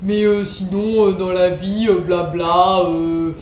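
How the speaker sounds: imitation moqueuse légère, hésitante, pleine de « euh »; imitation de Johan. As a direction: mimic a calm rambler padding with blablas. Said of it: "un Johan très calme qui parle avec un ton". (imitation calme et hésitante de Johan)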